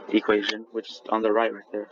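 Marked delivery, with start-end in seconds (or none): 1.5-1.9 a sudden crack in the voice. Real, not acted. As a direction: voice cracking mid-word. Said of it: "Sorry for that voice crack".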